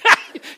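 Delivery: high, loud laugh; a sudden loud laugh; burst of laughter. Real, not acted. Pastor laughs at the idea, high and loud.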